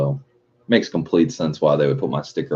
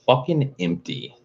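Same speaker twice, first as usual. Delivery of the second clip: mock dismay; 9 semitones higher, 4 dB quieter than usual. Real, not acted. Complaining to Cam about P O box.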